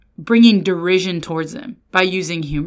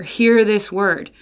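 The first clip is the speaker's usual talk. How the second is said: slow proclamation; much slower than usual. Shown as a demonstration. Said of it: "this literary marker".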